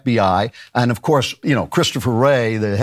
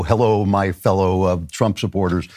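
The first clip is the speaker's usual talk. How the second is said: lightly voiced low-pitched impostor; a hint of a fake insider's greeting; mock undercover agent; 6 semitones lower than usual. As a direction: drop the pitch, posing as one of them. Posing as undercover agent among protesters.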